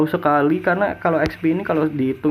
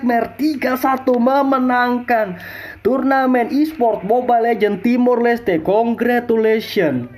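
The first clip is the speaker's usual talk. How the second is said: triumphant announcement; 4 semitones higher, slower than usual. Real, not acted. Caster announcing tournament winner.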